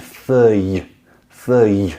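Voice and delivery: fei with a puff of air at the end; breathy y ending. Shown as a demonstration. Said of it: "I push out a little bit of air".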